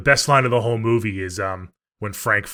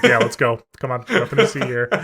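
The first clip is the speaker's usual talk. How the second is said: laughing while quoting; 2 semitones higher, 6 dB louder than usual. Retold or imitated. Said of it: "And he's like".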